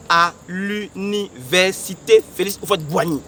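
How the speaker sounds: slow, measured syllable-by-syllable delivery; deliberate. Real, not acted. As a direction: spell out the venue slowly, syllable by syllable. Announcing the meeting place deliberately. (lent et martelé)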